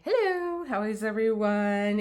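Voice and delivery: bright greeting. Real, not acted. Greeting viewers on camera.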